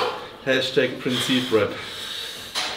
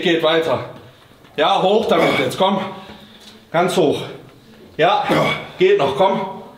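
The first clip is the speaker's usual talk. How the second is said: loud, high coaching shouts; shouting encouragement; 4 semitones higher, 4 dB louder, slower than usual. Real, not acted. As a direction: push the lifter through each rep. Coach shouting reps at lifter.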